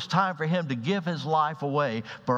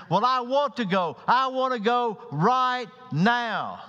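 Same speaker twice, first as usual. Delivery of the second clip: stubborn Peter; 8 semitones higher than usual. Acted. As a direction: dig in like a stubborn child, much higher. Preacher voices stubborn Peter.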